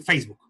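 "Facebook" with plain Spanish vowels; Spanish pronunciation. Shown as a demonstration. Teacher showing the loan is Spanish too, feis-buk pronunciation. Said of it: "Eso es español también".

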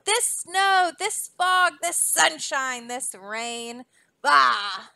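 a grumpy king yelling at the sky; hammed-up royal shout. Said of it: "he started shouting".

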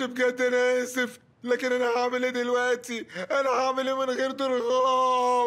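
crying. Acted. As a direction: blubber the question. Crying to mom again.

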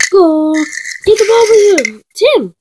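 loud, high calls across the court; shouting in a game. Pretend. Kid calling teammates during basketball, shouting high. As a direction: yell for the ball and the goal.

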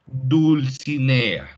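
Dulcinea read out slowly, syllable by syllable, with its L; reading a child's text aloud, slowly; slow careful reading. Shown as a demonstration. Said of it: "Se pierde la L".

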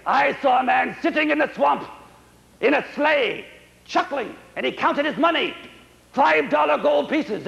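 put-on a young man reporting his find, a touch breathless; eager young son. Henry's voice in reading.

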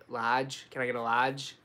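"lodge" with no R, open ah; Boston large. Shown as a demonstration. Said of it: "I say".

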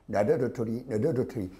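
put-on "나도 도토리, 너도 도토리" with tongue-short English-accented d and t; English-speaker accent in Korean. Teacher mimics native English speakers repeating Korean, English-accented and tongue-short. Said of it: "혀 짧은 소리가 납니다".

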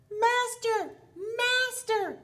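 shrieking harp. Acted. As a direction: cry out like a magic harp calling for help. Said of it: "but it shrieked".

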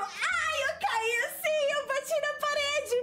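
laughing hard. Real, not acted. Retelling crash into wall, laughing.

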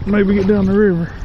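grunting with effort while talking; straining and grunting between words. Real, not acted. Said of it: "Excuse the grunting and groaning".

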